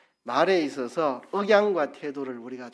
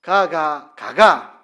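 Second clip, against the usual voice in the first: louder Gyeongsang intonation "가가, 가가"; 10 dB louder, much slower than usual. Shown as a demonstration. Preacher demonstrating dialect, a loud Gyeongsang "가가". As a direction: sing the "가가" tones the Gyeongsang way. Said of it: "제가 해볼게요".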